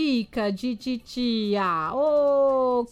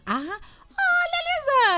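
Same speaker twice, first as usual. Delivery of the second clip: delighted; 14 semitones higher, much slower than usual. Real, not acted. Spots friends in photos.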